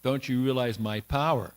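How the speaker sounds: mildly scornful challenge; mock him with a touch of disbelief; lightly acted derision. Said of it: "mocked him, said".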